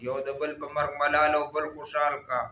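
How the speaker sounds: measured, cadenced verse reading; poem recitation. Acted. Reciting Hamid Baba's verse for listeners, poem recitation. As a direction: recite the couplets with rhythmic line endings.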